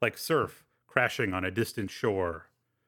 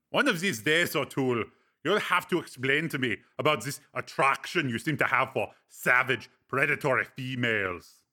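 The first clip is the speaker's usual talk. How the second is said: Breck, teasing friend. Acted. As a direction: needle him with dry amusement.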